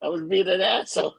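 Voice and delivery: chuckling as he owns up; laughing admission. Real, not acted. Friend admits he was rude, laughing. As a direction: laugh through the confession.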